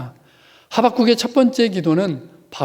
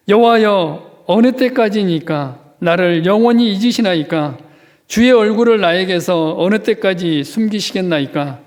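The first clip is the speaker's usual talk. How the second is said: louder, pleading cry of the psalmist; fervent psalm reading; 4 dB louder than usual. Acted. Pastor reading a lament psalm aloud, pleading. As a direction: ask how long as if aching.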